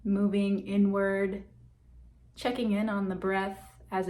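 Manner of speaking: calm meditation guide with long, settling pauses; guided meditation. Real, not acted. Guide leading listeners to check in on breath and body, guided meditation. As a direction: ease listeners inward, leaving space between phrases.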